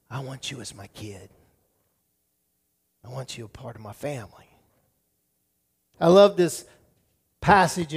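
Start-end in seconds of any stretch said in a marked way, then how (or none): 0.1-4.5 soft, low, tender words of a father; softly voiced divine invitation. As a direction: say it low and gently, welcoming a child. Voicing God's tender adoption.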